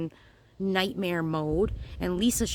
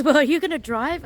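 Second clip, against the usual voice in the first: higher, louder quoting sister-in-law; 8 semitones higher, 7 dB louder than usual. Retold or imitated. Sister-in-law asking Lisa at the test drive, higher louder voice. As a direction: pitch her question up and out.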